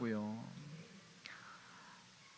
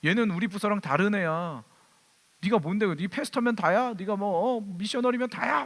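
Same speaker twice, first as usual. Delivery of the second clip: imitating yelling policeman. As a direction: retell the cop's tirade, rising in pitch. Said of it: "막 소리를 지르는 거예요". (소리 지르는 경찰 흉내)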